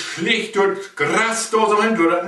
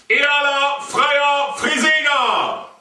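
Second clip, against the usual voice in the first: proud cheer; 5 semitones higher, slower than usual. Acted.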